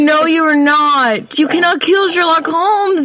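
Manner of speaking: high, laughing indignant no; outraged protest. Real, not acted. Defending Sherlock Holmes from her friend, high laughing outrage.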